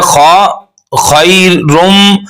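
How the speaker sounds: "खैरुम" stretched slowly with a nasal end; leen and ghunna. Shown as a demonstration. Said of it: "फिर लीन है".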